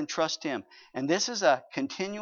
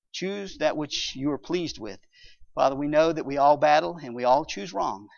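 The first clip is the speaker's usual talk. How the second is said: closing prayer. Acted.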